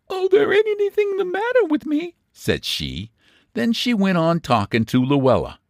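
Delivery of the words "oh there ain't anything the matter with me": high neighbour voice waving off worry; frail neighbour. A narrator's reading. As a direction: insist you're fine though you're not. Miss Mixter brushing off concern.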